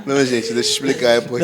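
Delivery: hoarse from an inflamed throat; sore throat voice. Real, not acted. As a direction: speak through a sore, swollen throat. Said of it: "eu tô com a garganta inflamada".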